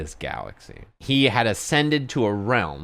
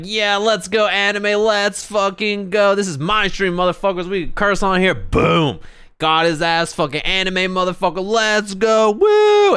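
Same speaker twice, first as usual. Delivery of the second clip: high, loud party shouting; drunk hype yelling; 10 semitones higher, 5 dB louder than usual. Retold or imitated. Retelling a drunk friend yelling on his stream. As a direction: scream like a drunk frat boy on stream.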